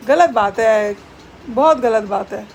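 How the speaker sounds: loud, low playful scold; mock scolding. Real, not acted. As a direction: tell the naughty pet off. Scolds pet for stealing food. (बनावटी गुस्से में ज़ोर से डाँटना)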